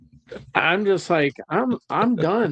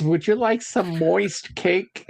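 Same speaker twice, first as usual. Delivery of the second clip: slow, sweet diner waitress; lightly voiced old lady offering cake; 4 semitones higher, slower than usual. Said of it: "the old lady at Perkins".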